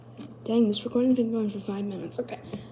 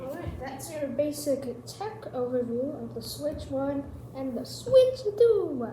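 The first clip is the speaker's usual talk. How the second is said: presenter sign-off; 3 semitones higher than usual. Pretend. Performed outro of the skit.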